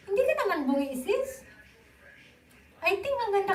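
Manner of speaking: fast laughing reassurance. Real, not acted. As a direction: laugh it off quickly. Laughing reply to viewer. (tumatawang pagsagot)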